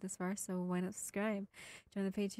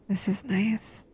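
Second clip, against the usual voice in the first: contented whisper; 11 dB louder, slower than usual. Acted. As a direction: whisper it slowly, savouring the moment. Content while cuddling.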